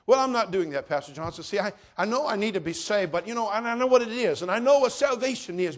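loud, high, impassioned preaching of a refuser's excuse; preaching at full force. Acted. Preacher voicing a sinner's excuse to Pastor Johnson, loud and high.

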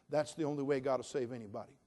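normal talking voice

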